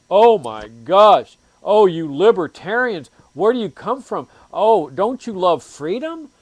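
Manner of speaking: loud, slow shocked gasp of disbelief; mock scandalized. Statist mocked as appalled at libertarians, loud slow horror. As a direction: play the appalled statist to the hilt.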